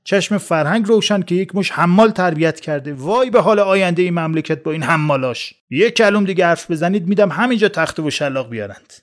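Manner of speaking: a duty officer losing patience, threatening; angry shout. Acted. The officer shouts at the three brawling students, angry bark. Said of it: "افسر کشیک داد زد".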